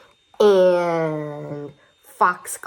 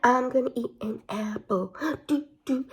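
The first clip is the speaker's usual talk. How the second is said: caterpillar voice; 5 semitones higher than usual. Acted. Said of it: "He's like".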